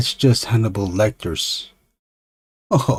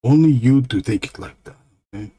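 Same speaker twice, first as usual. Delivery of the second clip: lightly voiced dim monster; dopey monster telling someone off; a hint of an indignant dumb monster; stupid monster; 2 semitones higher, faster than usual. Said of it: "that monster talks stupid".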